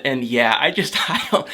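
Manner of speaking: small laugh breaking into the words; sheepish laughing. Real, not acted. Vlogger admitting a show made her sad, sheepish laughing. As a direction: trail off into a little laugh.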